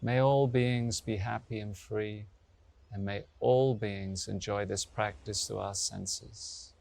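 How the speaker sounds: slow, measured invocation; opening blessing. Real, not acted. Yoga teacher blesses all beings after chanting, slow invocation. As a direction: recite it slowly, letting the phrase ends settle.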